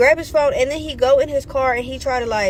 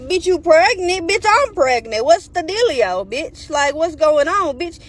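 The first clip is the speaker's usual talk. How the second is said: incredulous reaction; 3 semitones higher, slower than usual. Retold or imitated. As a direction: demand answers, stretching the words. Acted shocked reaction to pregnancy news.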